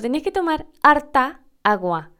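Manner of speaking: imitating Chilean lilt on tomar harta agua; Chilean intonation. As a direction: run harta agua together Chilean style. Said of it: "por la entonación, parecía que harta agua era una sola palabra". (imitando la entonación chilena)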